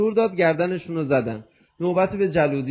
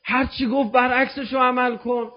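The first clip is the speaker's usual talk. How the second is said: retold panicked yelling; 6 semitones higher than usual. Jaludi urges Ma'mun to do the opposite, retold yelling. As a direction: act out a frantic high protest.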